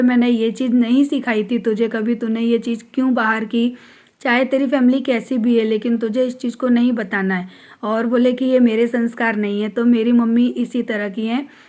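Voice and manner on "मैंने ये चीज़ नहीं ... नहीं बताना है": ordinary delivery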